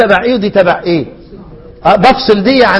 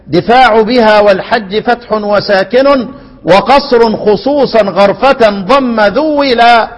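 slow, metred reading with long vowels; verse recitation; much slower than usual. Acted. Teacher reading out the next line of the poem, slow verse recitation. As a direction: recite it slowly as measured verse.

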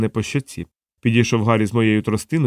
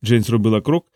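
ordinary delivery

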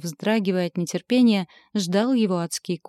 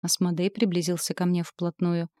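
usual speaking voice

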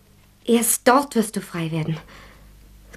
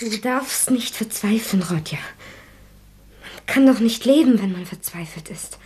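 gentle whispered comfort. Acted. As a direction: soothe a despairing man. Sonja comforting Rodja.

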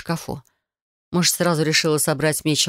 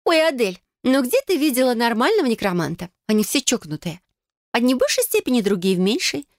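giggling; 8 semitones higher than usual. Acted. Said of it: "хихикнула она".

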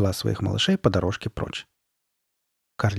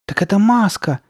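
high, loud burst of surprise; sudden realisation; 10 semitones higher, 5 dB louder than usual. Acted. Sabrina finally understanding, surprised exclamation. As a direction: exclaim as it dawns on you.

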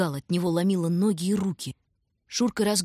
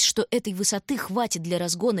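usual speaking voice

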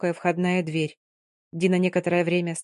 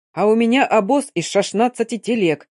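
loud, angry cossack bellow; shouting; 3 semitones higher, 5 dB louder than usual. Acted. Cossack sergeant shouting at the nurse about his wagons. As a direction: yell it over the street noise. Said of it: "заорал казак".

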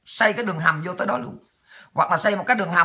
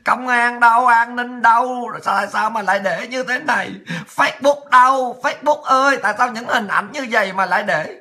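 mock outraged cry. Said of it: "dậm chân, dậm cẳng, dậm tay, khóc lóc".

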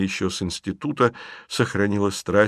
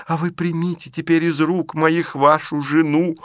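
higher, swelling sentimental plea; rising theatrical appeal; 4 semitones higher than usual. Acted. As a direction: build it up like a stage scene. (театрально, нарастая)

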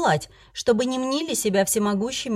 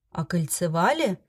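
puzzled. Acted. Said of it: "не понял выражения Алонсо".

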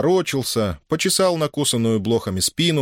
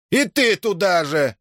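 offended; 10 semitones higher, slower than usual. A narrator's reading. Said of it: "обиделся Иннокентий".

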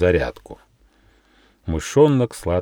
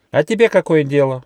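higher mouse voice, louder, grumbly; grumbling mouse; 7 semitones higher, 5 dB louder than usual. A narrator's reading. Still scared mouse grumbling at the squirrel. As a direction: grumble it rudely. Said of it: "проворчал мышонок".

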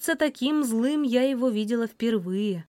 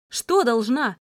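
shouted; 2 semitones higher, 4 dB louder than usual. Acted. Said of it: "выкрикнула я".

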